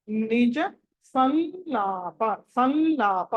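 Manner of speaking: సంలాప with the anusvara held as a nasal n before laa; slow సంలాప, humming the nasal into a long laa. Shown as a demonstration. Teacher modelling for students, సంలాప with a held nasal n. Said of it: "ఇది ఎలా పలకాలంటే".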